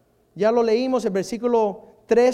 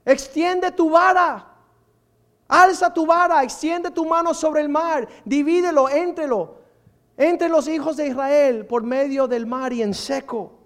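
God's command; 2 semitones higher, 3 dB louder than usual. Retold or imitated. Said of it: "Versículo dieciséis".

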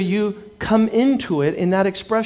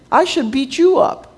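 higher and louder, playful outrage; joking counter-threat, raised; loud mock indignation; 8 semitones higher than usual. Real, not acted. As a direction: throw the threat back, loud and high. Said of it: "I have to talk like this".

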